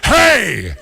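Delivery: loud, high, barked Boston shout. Retold or imitated. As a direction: holler it like a seal guarding the house.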